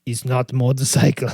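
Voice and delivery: lightly voiced Bruce Willis tough guy; Pulp Fiction tough guy. Boyfriend correcting his girlfriend, lightly gruff. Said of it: "That's, that's Pulp Fiction".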